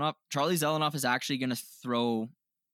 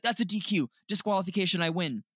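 high mocking voice; mocking whine; 6 semitones higher than usual. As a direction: claim the win like a brat. Mocking fighter claiming win.

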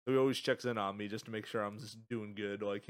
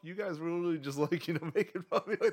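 high-pitched disbelief, half laughing; mock outrage, voice shooting up; retelling his reaction to friends calling him normal, incredulous; 9 semitones higher, 6 dB louder than usual. Retold outrage at friends' hypocrisy.

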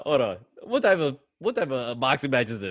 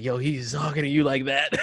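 laughing; 2 semitones higher than usual. Real, not acted. Friend mocks kid scolded by dad.

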